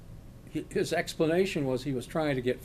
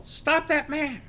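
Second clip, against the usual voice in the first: high, slow mock yell for help; 12 semitones higher, slower than usual. Woman outside the bank yells after the robber, high mock yell. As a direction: shout it out to stop a fleeing man. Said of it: "I hear this voice yell".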